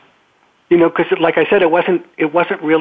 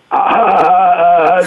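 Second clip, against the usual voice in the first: startled gasp; 2 semitones higher, 4 dB louder than usual. Retold or imitated. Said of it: "that was my response".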